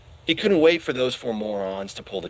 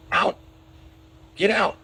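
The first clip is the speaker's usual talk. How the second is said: bellowing; 9 semitones higher than usual. A narrator's reading. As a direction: roar them out of the room. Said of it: "bellowing at the top".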